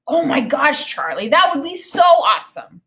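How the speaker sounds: put-on high, bright with boyish excitement; excited kid. A narrator's reading. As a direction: gush like a thrilled child. Kid excited about Ferrari.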